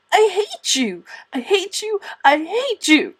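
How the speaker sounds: hammed-up child's furious outburst. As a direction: stamp out every word. Child's tantrum.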